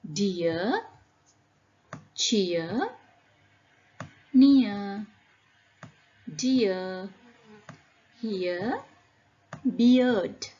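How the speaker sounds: "Dear", "Cheer", "Near" singly, each with a drawn ee-uh; ear sound demo. Shown as a demonstration. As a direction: read out "Beard" and the rest stressing the ear glide. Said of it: "All the words have ear sound".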